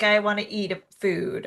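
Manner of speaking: ordinary talk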